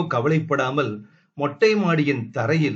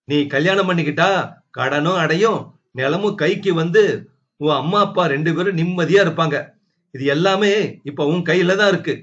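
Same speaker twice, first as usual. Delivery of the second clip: fast, raised pressing voice; pushy sister-in-law; 3 semitones higher, 3 dB louder, faster than usual. Acted. Sister-in-law presses Tulasi to marry, fast and raised. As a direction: corner her into agreeing.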